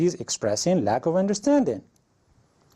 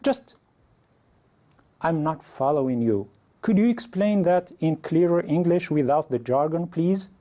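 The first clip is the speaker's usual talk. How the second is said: higher-pitched polite learner voice; raised, polite demo line; model learner request; 5 semitones higher than usual. Shown as a demonstration. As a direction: act out the learner asking to have the jargon explained. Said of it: "you can say".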